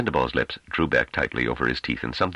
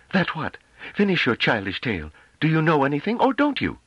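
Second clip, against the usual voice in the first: higher, impatient and contemptuous; scornful woman's voice; 14 semitones higher than usual. Acted. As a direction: cut him down with scorn. Delaarmy scornful challenge.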